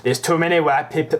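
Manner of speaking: put-on botched Welsh accent. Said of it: "Why am I doing a Welsh accent".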